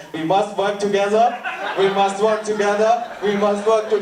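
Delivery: mock South African director on repeat; South African accent. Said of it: "the director's like".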